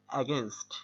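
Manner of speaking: "against" said carefully as a teaching model; careful model pronunciation. Shown as a demonstration. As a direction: enunciate "against" through to the final st. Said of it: "উচ্চারণটা আসলে একটা আছে".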